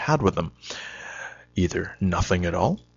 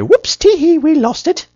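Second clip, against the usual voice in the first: silly giggly confession; 10 dB louder than usual. Pretend. Imagined silly confession to boss.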